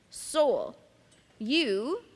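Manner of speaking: "Soul" and "you" set apart, each alone; stress on marked words. Shown as a demonstration. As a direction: isolate "Soul", then "you", with a pause between. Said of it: "emphasize the words that I would mark".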